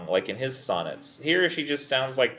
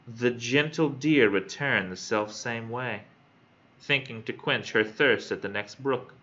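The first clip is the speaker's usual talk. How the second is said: slow, measured verse reading; poem reading; slower than usual. Acted. Student reading a sonnet to classmates, measured recital. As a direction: read each line out slowly with stretched stresses.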